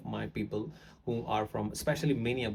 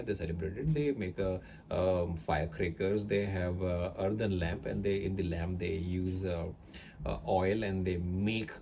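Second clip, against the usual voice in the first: Indian accent; 3 semitones lower than usual. Shown as a demonstration. Teacher demonstrating an Indian accent to students, lightly. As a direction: tell the Diwali story in an easy Indian English accent. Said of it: "I'm gonna speak about Diwali in Indian accent".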